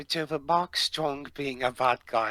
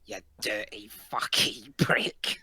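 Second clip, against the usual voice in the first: put-on London accent; 3 semitones lower than usual. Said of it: "stereotypical Londony accent".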